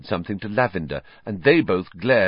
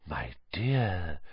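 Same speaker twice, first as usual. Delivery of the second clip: much softer breathy endearment; breathed; 9 dB quieter than usual. Acted. Trelawney gazing up at Harry, breathed softly. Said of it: "Professor Trelawney breathed".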